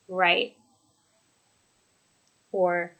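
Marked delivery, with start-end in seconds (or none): 0.1-0.6 "Right" dropping at the end; settled, downward "Right"; falling intonation. Shown as a demonstration. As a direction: say "Right" with the tone going down. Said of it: "And then with falling intonation".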